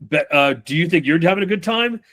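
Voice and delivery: "having a good time" climbing into a question; questioning rise. Acted. Player answering a question with a question, tune rising on "time". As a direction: lift the pitch steadily up to "good time". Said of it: "only speak in questions".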